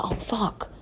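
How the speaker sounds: a retold swear breathed in a whisper; mock panicked whisper. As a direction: whisper it like you've just been caught. Panics as live call connects.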